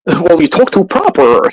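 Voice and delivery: nasal-free high jeer; mock teammates. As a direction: imitate the mocking players. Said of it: "I would look at them".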